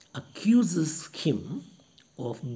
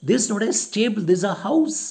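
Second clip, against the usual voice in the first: higher, louder indignant reproach; 8 semitones higher, 6 dB louder, faster than usual. Retold or imitated. Widow indignantly scolding Smirnov for shouting. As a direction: put him in his place. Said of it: "gets angry".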